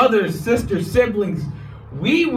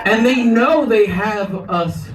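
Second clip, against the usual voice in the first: roaring rallying speech. Real, not acted.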